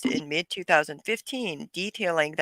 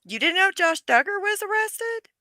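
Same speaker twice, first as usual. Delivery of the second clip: surprised; 5 dB louder than usual. Real, not acted. Shocked news to friend.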